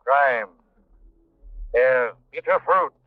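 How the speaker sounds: slow, deep, eerie pronouncement; ominous Shadow voice. Acted. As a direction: intone it like a ghostly avenger. Shadow's signature closing line.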